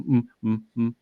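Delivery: short hums kept under the breath; tiny secret hums; quiet humming. Shown as a demonstration. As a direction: hum quietly so nobody notices. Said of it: "really quiet".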